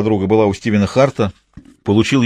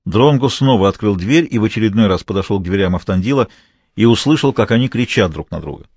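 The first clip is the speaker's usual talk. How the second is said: ordinary talk, nothing marked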